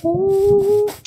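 sudden high startled oh; startled gasp. Real, not acted. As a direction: jolt of surprise. Falling in parkour game.

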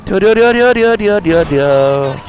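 slow rolling brrr imitation; engine noise. (입으로 오토바이 엔진 소리)

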